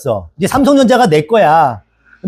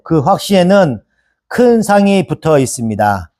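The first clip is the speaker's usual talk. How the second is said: measured, even read-aloud scripture; 3 semitones lower than usual. Acted. Preacher reads the passage to the congregation, measured scripture reading.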